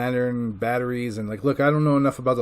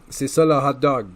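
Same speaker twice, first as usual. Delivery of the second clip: mock French phrase; 4 dB louder than usual. Shown as a demonstration. Joking about a fake expression, mock French lilt. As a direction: toss off a fake French saying. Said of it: "not really a French expression".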